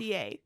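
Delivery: "Patissier" said pa-tis-si-er, French style; careful French "Patissier"; French pronunciation. Shown as a demonstration. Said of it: "Say it with me".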